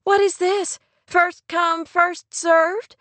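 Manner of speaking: high, mocking questions; sarcastic. A narrator's reading. Kate mocks Rory's loved-him-first reasoning, sarcastic. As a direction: scoff sarcastically, pitched right up. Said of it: "riddled with sarcasm".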